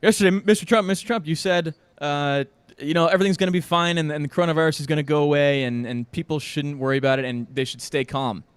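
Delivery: loud pushy reporter calling out over the crowd; mock reporter shouting. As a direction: call out like a reporter shouting questions. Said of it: "And Jim Acosta is going".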